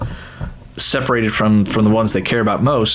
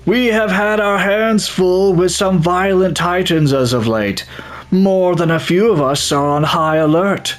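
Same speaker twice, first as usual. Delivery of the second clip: android voice; 8 semitones higher than usual. Acted. Player reading Andromon's warning to newcomers, as an android. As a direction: play it like an Android sixteen audition. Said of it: "I have to do an android voice".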